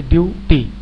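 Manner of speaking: ड्यूटी broken into ड्यू and टी; two-syllable split. Shown as a demonstration. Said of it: "दो भागों में इनको उच्चारित करते हैं".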